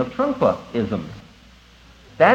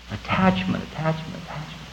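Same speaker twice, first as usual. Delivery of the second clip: fading repetition; 7 dB quieter than usual. Shown as a demonstration. Teacher names the clinging behind the letters, fading repetition. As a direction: start softly and fade to almost nothing. Repeated word fades after the letters.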